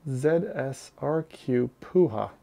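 Z S R Q Puha spelled out slowly, letter by letter, ending on Puha; slowly spelling out Z S R Q Puha; careful name reading. Shown as a demonstration. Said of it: "how do I say your name?".

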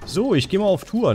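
high bright announcing voice; sing-song. Pretend.

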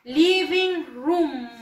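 "Living room" very slow, vowels drawn out; repeat-after-me model. Shown as a demonstration. Teacher has pupils repeat after Miss, slow drawn-out model. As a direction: stretch "Living room" for learners, room as "ruum". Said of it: "Repitan después de la Miss".

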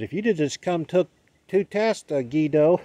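high-pitched mock teacher voice; imitated lady teacher. Spanish teacher to the student she failed, high imitated voice. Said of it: "the lady failed me. She goes".

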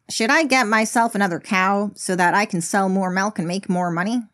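lightly imitated pundit voice; a hint of an impression, mostly in own voice; Ben Shapiro. Farmer asking himself about another cow, lightly impersonated. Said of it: "That's my Ben Shapiro voice".

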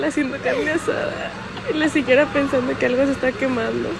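excited. Real, not acted. Telling story loudly, laughing.

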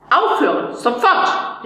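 teacher's sharp call to stop; mild stern call. Acted. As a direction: order the boy to stop at once. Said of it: "rief unser Lehrer".

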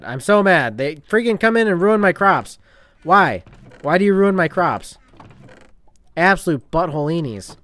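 loud, high indignant rant; angry rant. Real, not acted. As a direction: vent your outrage at them. Ranting about ruined crops.

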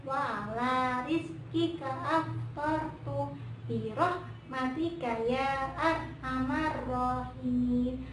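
slow, measured, drawn-out prayer; prayer recitation. Shown as a demonstration. Kak teaches Momon the fast-breaking prayer, slow recitation. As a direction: recite slowly for children to follow.

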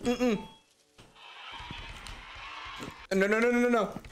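burning mouth from chili; talking through hot pepper pain; mouth full of hot food. Real, not acted. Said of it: "My mouth is on fire".

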